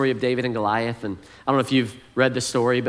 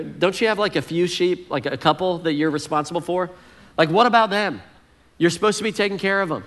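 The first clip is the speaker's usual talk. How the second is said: higher, mocking big-brother jab; jabbing older brother; 4 semitones higher than usual. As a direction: needle him like an annoyed older brother. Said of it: "he throws a jab in there".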